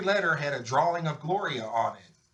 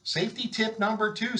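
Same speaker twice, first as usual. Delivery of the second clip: higher, bright announcing; announcing tip; 9 semitones higher than usual. A narrator's reading. Officer announcing a tip to the school, high announcing. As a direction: announce it with a flourish.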